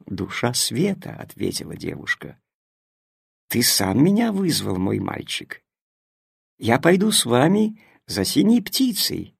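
softly, tenderly, like light itself; soft gentle voice. Acted. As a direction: speak softly to the boy. Душа света говорит. (нежно и тихо)

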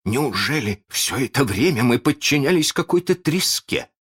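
high, incredulous question; pirates' dismay, pitch climbing; muttered disbelief. A narrator's reading. Pirates doubt their leader, high incredulous voice. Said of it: "пробормотали они".

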